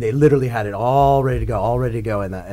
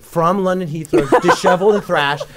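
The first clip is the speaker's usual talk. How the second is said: excited; 7 semitones higher, 8 dB louder than usual. Retold or imitated. Excited telling of wild arrival.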